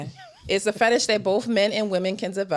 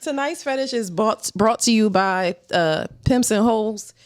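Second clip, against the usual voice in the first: put-on presenter voice. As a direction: play the show announcer, stretching the sponsor's name. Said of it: "What was that voice?".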